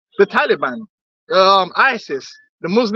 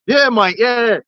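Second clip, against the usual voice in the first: mock British accent; 2 semitones higher, much slower than usual. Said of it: "Accents change".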